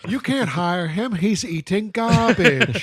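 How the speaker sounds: obviously put-on objecting voice; fake voice. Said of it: "obviously that voice you're using, that's fake".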